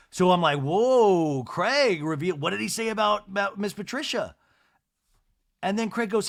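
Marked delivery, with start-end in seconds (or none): 0.6-4.4 mock shock. Acts out startled demand to Craig.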